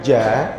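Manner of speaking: JA with the breath held back; correct jim. Shown as a demonstration. Teacher showing students how jim sounds, correct jim. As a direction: say JA with the tongue middle pressed to the palate. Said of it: "ja itu bukan ja".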